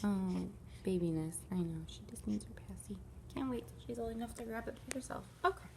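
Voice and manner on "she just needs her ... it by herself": real whisper. Real, not acted. Baby nearby, speaking softly.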